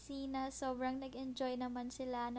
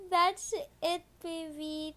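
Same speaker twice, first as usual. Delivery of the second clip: loud; 4 semitones higher, 8 dB louder, slower than usual. Real, not acted. Loud after finishing lullaby.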